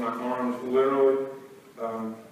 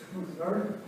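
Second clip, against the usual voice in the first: high, disbelieving squeak at the hour; can't believe the time he's been woken; sleepy shock at being woken; incredulous; 9 semitones higher than usual. Retold or imitated.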